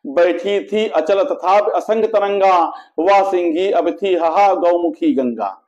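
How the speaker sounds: measured, metrical verse reading with sustained line endings; poetry recitation. A narrator's reading. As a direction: recite the couplets in a steady, declaimed rhythm. Recites verse from an epic poem. (लयबद्ध काव्य-पाठ)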